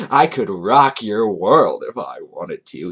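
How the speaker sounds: slow, loud, hammed-up swagger; mock seductive boast. Host reading Toon's roleplay boast, mock seductive. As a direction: stretch it like a cheesy come-on.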